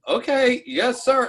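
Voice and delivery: high-pitched retold "yes, sir"; mock compliance. Kid answering a cop's warning, high mock compliance.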